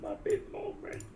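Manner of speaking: high, slow, breathy Muppet squeak. Pretend. Owning the Muppet joke, a high slow Muppet voice. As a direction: play the Muppet for a beat. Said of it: "You sound like a Muppet".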